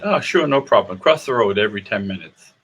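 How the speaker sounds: lightly imitated Irish accent, breezy reassurance; helpful little Irishman, lightly voiced; a hint of Irish lilt. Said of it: "the little Irishman said".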